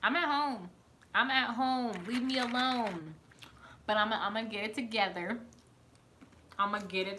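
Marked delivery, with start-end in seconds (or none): 0.0-3.2 mock dismissive. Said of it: "I was just like".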